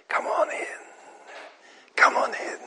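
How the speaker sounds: soft invitation. Real, not acted. Preacher inviting softly.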